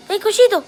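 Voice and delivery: calling the puppy in Spanish, high and sing-song. Shown as a demonstration.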